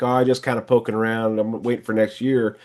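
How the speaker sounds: understated timid brush-off; timid customer. Acted. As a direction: lightly voice a hesitant, noncommittal customer. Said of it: "with a customer that's timid".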